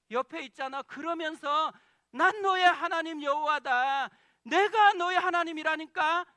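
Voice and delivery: impassioned preaching voice of God, not a whisper; God's loving plea. Pretend. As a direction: cry it out like God reassuring a weary child. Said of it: "계속 속삭였던 거예요".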